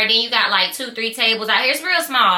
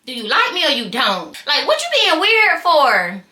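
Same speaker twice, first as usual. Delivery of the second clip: incredulous; 3 semitones higher than usual. Retold or imitated. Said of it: "So, I'm like".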